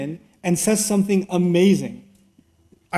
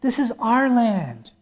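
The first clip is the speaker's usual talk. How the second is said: lightly voiced king, slow; a hint of a humbled ruler asking help; Pharaoh pleading; 5 semitones higher than usual. Pharaoh addressing his generals, lightly ingratiating. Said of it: "he gathers the generals and says".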